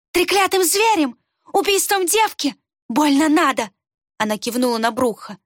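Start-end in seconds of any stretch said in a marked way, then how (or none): 0.1-3.7 scornful outburst. A narrator's reading. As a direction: scoff furiously. Рукс scoffs angrily. (презрительный выкрик, высоко и громко)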